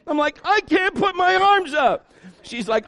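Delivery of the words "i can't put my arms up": high, drawn-out mock wail; insistent crying child. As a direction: wail it slowly, pitched high. Injured child insists louder.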